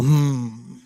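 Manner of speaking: a short, interested hum through closed lips; audible hmm. Retold or imitated. Girl in coffee line noticing him, audible hmm. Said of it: "does an audible".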